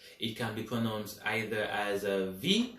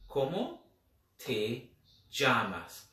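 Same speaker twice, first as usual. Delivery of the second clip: slow word by word; slower than usual. Shown as a demonstration. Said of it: "¿Cómo se dice".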